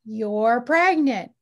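slow, loud mock yell of the news; retold yell. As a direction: shout it slowly, insisting. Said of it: "the doctor's yelling at me".

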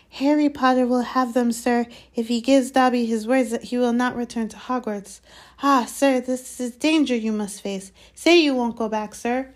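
high pleading house-elf; squeaky house-elf. Acted. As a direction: plead like a nervous little elf. Dobby bargaining, elf voice.

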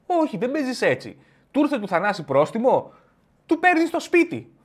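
high, indignant correction. Acted. Scolding the soft player.

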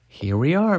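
loud, high-pitched arrival call; announcing. A narrator's reading. Miss Frizzle arriving at the flower, announcing. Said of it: "Miss Frizzle announced".

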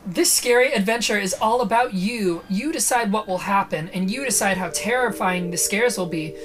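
punchy spooky-book warning; dramatic story narration. A narrator's reading. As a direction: warn the listener, stretching the final word. Reads the book's warning aloud.

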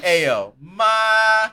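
casual street greeting. Retold or imitated. Teasing a friend, greeting his mom, loud mock-casual. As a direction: hail your mom like a buddy.

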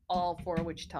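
slogan in a Midwestern accent. Real, not acted. Podcaster saying the city slogan, light Midwestern accent. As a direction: let the Midwestern vowels show. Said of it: "I just said that with my Midwestern accent".

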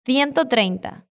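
slow Castilian accent, "Ciento" with a th; Spanish accent. Shown as a demonstration. Teacher answers how fast the man went, Spanish accent. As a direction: model a Spain accent, unhurried. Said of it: "usando el acento que estamos practicando".

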